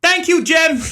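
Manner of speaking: high, loud, brash American TV voice; overexcited American presenter; American host voice. Acted. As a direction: play the loud American guest. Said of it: "Right, Larry, it's all you".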